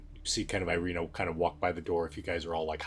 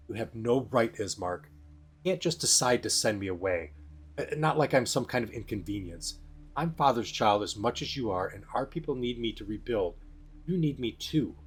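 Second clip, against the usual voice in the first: sharp indignation; 4 semitones higher than usual. Acted. Irina protests to her brother about being sent away, mildly indignant. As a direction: push back at him with mild indignation. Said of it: "very sharp with indignation".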